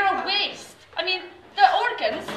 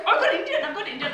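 put-on Indian accent; 3 semitones higher than usual. Shown as a demonstration. Comic offers another accent for the act, Indian accent. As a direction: launch into a mock Indian accent. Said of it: "I'll go with the Indian".

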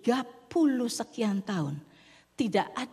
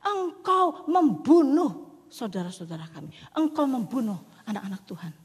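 angry accusation; 3 semitones higher, 4 dB louder than usual. Acted. Crowd shouting at Moses that he killed their brothers, angry. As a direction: hurl the blame at Moses. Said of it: "Mereka makin marah-marah".

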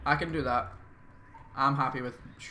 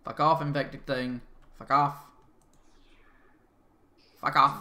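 swearing tirade; 7 dB louder than usual. Real, not acted. Swearing at infected.

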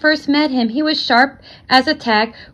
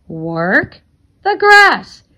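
dismayed; 3 semitones higher, 4 dB louder, much slower than usual. Acted. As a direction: groan in dismay about the chore. Charlie dreads the chore.

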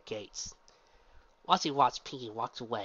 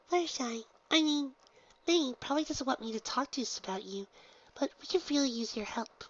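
Pinky, exclaiming; 13 semitones higher than usual. Acted. Pinky introduces herself to the gym leader, very high and bubbly.

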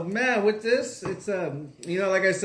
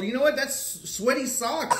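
laughing; 5 semitones higher than usual. Real, not acted. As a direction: laugh through the words. Laughing over gross flavor.

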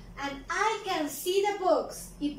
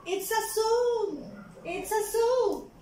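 higher, clear and eager; bright teacher answer; 4 semitones higher than usual. Shown as a demonstration. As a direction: present it like a happy reveal. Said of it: "What is it?". (respuesta alegre de maestra, más aguda)

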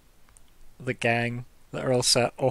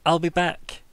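put-on Austrian accent; 5 semitones higher, 5 dB louder, slower than usual. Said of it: "Did he say that in an Austrian accent".

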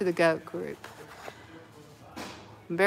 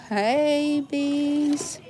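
toy voice; 7 semitones higher than usual. Pretend. Voicing a toy greeting.

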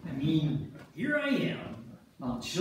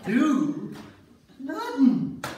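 laughing; 11 semitones higher, 9 dB louder, much slower than usual. Acted. Men react to wives arriving.

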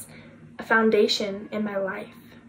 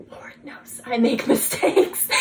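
laughing admission. Real, not acted. Admitting own faults to listeners, laughing. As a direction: laugh breaking into "mistakes".

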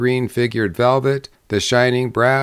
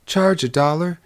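higher, rising echo of disbelief; surprised bride, voice rising at the end; astonished question; 6 semitones higher than usual. Acted. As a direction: query the price in astonishment, pitched up. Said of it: "cried the bride".

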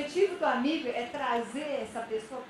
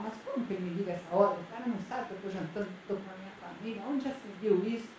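mock indignant rant; 3 semitones lower, faster than usual. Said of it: "Fiquei brava".

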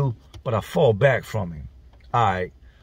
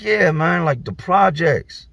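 emphatic yeah; 5 semitones higher, 4 dB louder, slower than usual. Retold or imitated. Friend telling a shocking story.

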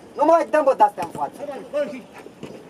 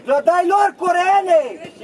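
raised coach's yell; sideline shout; 3 semitones higher, much slower than usual. Real, not acted. Coach yelling at a player about passing, sideline shout. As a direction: shout it across the pitch.

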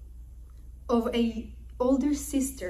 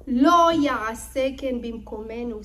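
loud Hebrew quote; 7 dB louder than usual. Acted. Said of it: "says Lavan to Yaakov".

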